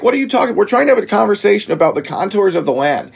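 high, incredulous protest; retold exasperated disbelief. Retelling his plea to the armed engineer, incredulous. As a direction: plead in high-pitched disbelief. Retold reaction to pulled gun.

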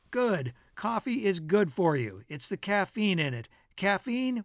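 lightly hammed-up, emphatic pronouncements; declaiming friend. Bill holding forth over coffee, lightly declaiming.

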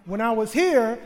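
ordinary delivery

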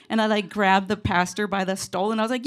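ordinary delivery

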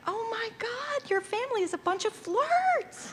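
mock-scandalized and amused; amused disbelief. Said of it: "she just looked at me like".

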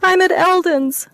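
slow, high, still tearful; slowly coming down from panic; calming a bit. Acted. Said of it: "dragged her slowly to the ground".

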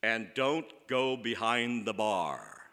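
slow, stern warning from a dad at the top of the stairs; a mild take on a stern father's slow warning. Retold or imitated. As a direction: lay down the law slowly like a strict father. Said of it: "he sounded very stern when he said".

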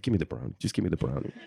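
flat demand. Retold or imitated. Date demanding the brownie.

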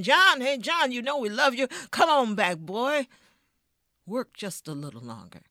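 loud, high calling across the road; owner shouting. Acted. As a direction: yell after him to come back. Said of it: "voice shouting at him".

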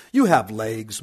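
shouted. A narrator's reading. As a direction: snap it back at him loudly. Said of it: "my Uncle Khosrov shouted".

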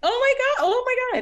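thrilled to find a fellow classmate; excited. Real, not acted. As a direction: gush it out in sheer surprise. Learns they overlapped at college.

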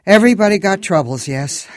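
put-on loud, high accented Everybody got troubles; Moldovan accent. A narrator's reading. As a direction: Moldovan cabbie stressing Everybody. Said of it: "This one had an accent".

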